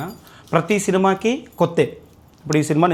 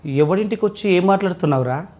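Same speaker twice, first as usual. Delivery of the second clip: villain dialogue. Pretend. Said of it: "విలన్గా చెప్పండి first".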